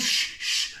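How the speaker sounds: breathless hush; whispered shush. Retold or imitated. Sneaking past the landlady's door, hushing in a whisper. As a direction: hush it under your breath. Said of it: "and goes".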